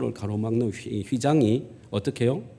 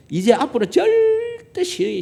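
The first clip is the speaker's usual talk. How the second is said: mock lecturing shout; 8 dB louder, slower than usual. Lecturing friend quoted, shouting.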